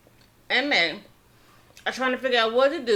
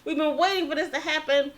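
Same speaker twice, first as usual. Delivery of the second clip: higher and brighter with relief; thrilled that Roger is finally safe; super excited; 3 semitones higher than usual. Retold or imitated. Family grateful the man paid Roger's fine, excited. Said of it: "He's super excited".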